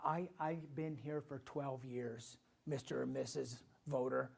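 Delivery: a hint of a stump-speech plea to the voter; mock career politician. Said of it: "I hear 'em talk".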